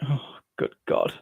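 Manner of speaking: soft, slow dismayed groan of a line; mock despair at running late; exasperated. Host recalling going past midnight, soft slow dismay. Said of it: "I'm like".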